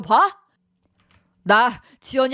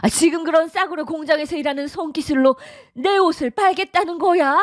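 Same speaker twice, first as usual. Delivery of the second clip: contemptuous scolding; 7 semitones higher than usual. Acted. Mother-in-law belittles her work.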